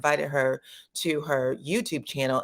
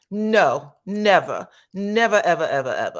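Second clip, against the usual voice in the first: loud, insistent never ever; emphatic refusal; 2 semitones higher, 5 dB louder than usual. Retold or imitated. Kandi refusing the interviewer, loud and insistent. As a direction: hammer every never.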